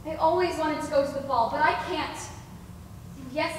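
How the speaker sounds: ordinary talk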